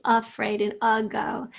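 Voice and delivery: AFRAID and AGO opening on a clear "uh"; clear schwa onset. Shown as a demonstration. Teacher pointing out the first syllable, afraid and ago with audible schwa. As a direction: say uh-fraid, uh-go. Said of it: "you can hear that schwa really clearly".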